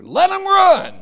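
high, loud, ringing cry; defiant shout. Acted. Preacher to critics of slow pace, loud defiant shout. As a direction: fling the answer back at the critics.

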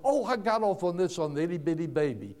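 normal talking voice

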